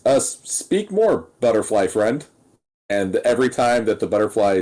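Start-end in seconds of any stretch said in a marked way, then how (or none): 0.1-2.2 halting request. Acted. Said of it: "so Stubbs goes".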